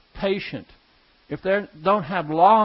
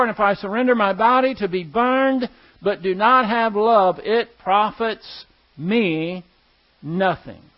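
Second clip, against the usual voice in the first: scripture reading. Acted. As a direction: read it like holy scripture.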